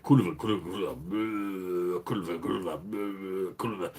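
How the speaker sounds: imitating Polish workmates chattering; a hint of Polish accent, repeating kulwa; mock Polish chatter. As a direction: rattle off a foreign swear word over and over. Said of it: "always chatting to each other".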